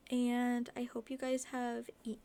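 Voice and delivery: interrupted by hiccups. Real, not acted. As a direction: talk through the hiccups. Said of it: "oh my gosh, I have the hiccups".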